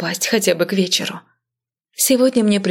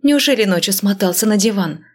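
ordinary delivery

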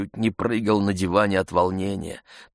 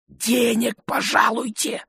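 ordinary delivery, nothing marked

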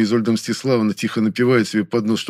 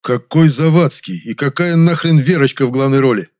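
louder, higher seething line; hissed in anger; 5 semitones higher, 6 dB louder than usual. A narrator's reading. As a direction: hiss it out, furious but held back. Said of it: "Медленно багровее прошипел я".

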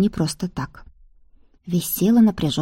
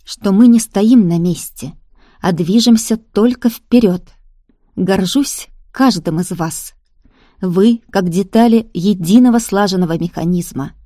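loud, hollow ghost speech to followers; creaking, rattling spirit addressing a crowd; otherworldly hollow voice; 5 dB louder than usual. Acted. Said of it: "Потусторонний голос звучал странно и гулко".

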